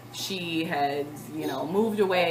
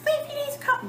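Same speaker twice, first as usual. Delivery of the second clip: retold yell; faster than usual. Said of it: "I scream downstairs".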